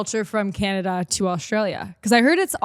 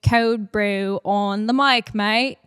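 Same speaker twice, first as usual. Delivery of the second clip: Australian accent attempt; slower than usual. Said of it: "extend your words like that".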